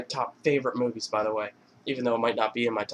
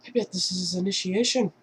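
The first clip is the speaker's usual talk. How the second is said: brother's voice; 7 semitones higher than usual. Retold or imitated. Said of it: "he's like".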